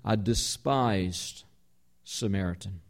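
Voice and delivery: "despised" drawn out slow and soft, "Samaritan" dropping low and quiet; slow down and let "despised" sink in; weighty stress on despised. Shown as a demonstration. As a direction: linger on "despised", then let "Samaritan" fall away. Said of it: "please note the word".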